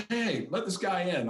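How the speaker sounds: high, stretched-out rocker impression; a rock singer. Singer waves a fan through the crowd, high-voiced impression. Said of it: "he's got kind of a higher pitched voice".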